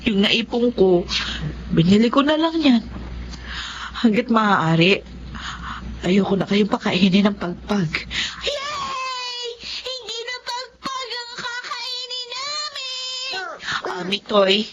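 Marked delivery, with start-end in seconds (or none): 4.0-8.1 choking up as she speaks; tearful mother. Acted. Mother promises no more scraps, tearful. 8.5-13.4 put-on high, softer child cheer, slow; a happy kid's crying-out cheer; child's cheer. The child cheers that they won't eat scraps, high and excited.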